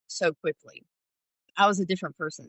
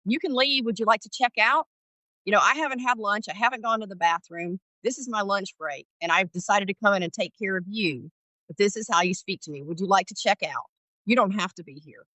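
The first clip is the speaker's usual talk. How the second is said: firm retort; 3 semitones higher than usual. Retold or imitated. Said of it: "I just looked at her and I said".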